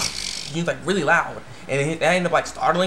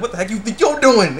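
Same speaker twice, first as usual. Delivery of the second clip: louder, higher acted outrage; mock fury; 5 semitones higher, 5 dB louder than usual. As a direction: confront the culprit, hammed-up. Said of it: "Super Saiyan mode".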